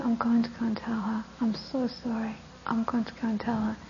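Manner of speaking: soft, contrite whisper; hushed remorseful plea; whispered apology. Acted. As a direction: confess in a hush. Son apologises to the Buddha.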